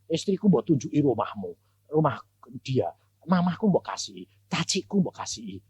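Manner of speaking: a mild hint of a hurt child's grumble; sulky complaint. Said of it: "saya bilang gini".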